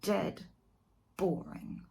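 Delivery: soft, dragged-out boredom; bored murmur. Acted. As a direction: let it die away bored. Bored verdict.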